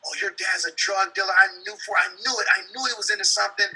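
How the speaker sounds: a hint of a smug classmate; gossiping schoolmates. Classmates taunting his daughter at school, light mock. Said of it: "nice school".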